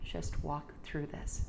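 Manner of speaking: slow unvoiced whisper; hushed slow whisper of self-encouragement. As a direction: breathe it to yourself like a secret. Inner voice repeated, now whispered.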